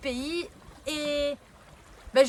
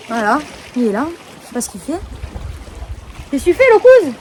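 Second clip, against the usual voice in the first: loud call across the distance; 13 dB louder than usual. Real, not acted. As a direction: shout so the cousin hears. Calling out to cousin outdoors. (appel à voix forte)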